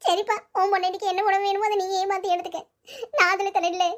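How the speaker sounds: hurt, tearful giving-in; wounded mother, mildly weepy. Acted. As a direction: give in with a touch of crying. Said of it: "Rangamma ஏன் அழுவுது?".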